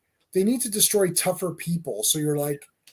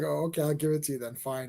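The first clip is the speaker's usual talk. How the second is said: quicker, softer grudging surrender; mock giving in; 5 dB quieter than usual. Fan voicing the guy caving to Asuka, quick and grudging. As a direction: shrug it off and cave. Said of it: "it's like".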